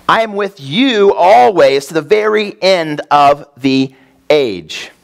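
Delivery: "always" slowed and leaned on; 천천히 "always"를 힘주어; stress on always. Shown as a demonstration. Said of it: "Notice the Bible doesn't say".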